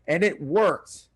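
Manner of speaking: imitating proud dieters. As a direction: list it off like a pleased dieter. Voices proud dieters reporting to him.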